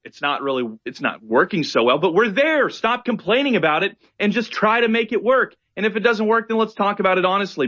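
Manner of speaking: pleading at them to stop complaining; exasperated rant. Retold or imitated. Telling feminists to stop complaining, exasperated mock rant. Voicing critics, raised pitch.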